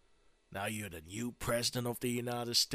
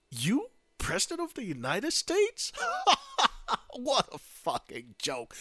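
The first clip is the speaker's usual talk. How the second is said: high incredulous question breaking into cackles; scoff, then laugh through the words; busting out laughing; 10 semitones higher than usual. Acted. Secret Service mocking the new president's claim, derisive laughter. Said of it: "they just start busting out laughing".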